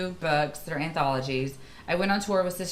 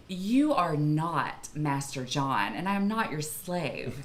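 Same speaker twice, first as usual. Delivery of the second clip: defiant retort; slower than usual. Retold or imitated. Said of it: "And then I say to them".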